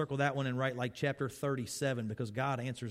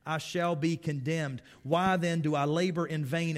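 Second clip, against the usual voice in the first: preaching Job; 3 semitones higher than usual. Acted. Preacher voicing Job's lament to the church, full force.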